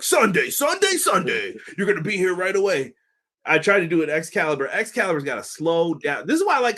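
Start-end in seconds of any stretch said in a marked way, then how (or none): 0.0-2.9 monster truck ad. Retold or imitated. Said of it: "You sound like the monster truck".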